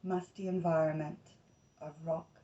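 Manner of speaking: unhurried meditation voice, short phrases with long pauses; guided meditation. Acted. Host leading listeners into Inanna's underground journey, guided meditation.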